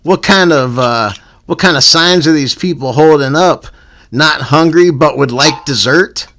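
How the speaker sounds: punchy, animated read-aloud rant; comic rant reading. Acted. Host reads a written rant about panhandlers, comic rant. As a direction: read it out like a stand-up bit.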